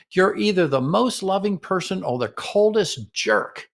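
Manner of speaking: slow critical jab. Shown as a demonstration. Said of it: "and the comeback is".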